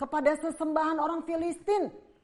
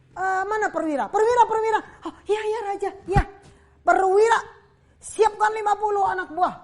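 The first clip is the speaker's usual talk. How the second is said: loud, high king summoning his men with a laugh; hammed-up king calling out his officer; bossy king calling; 7 semitones higher, 9 dB louder than usual. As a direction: shout for the soldiers, half amused. King calls troops again.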